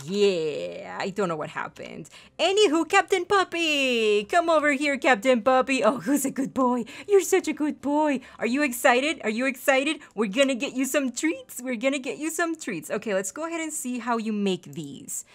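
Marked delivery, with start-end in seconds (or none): 2.4-12.9 doting pet voice. Real, not acted. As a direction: coo at him like a beloved puppy. Talking to her pet dog.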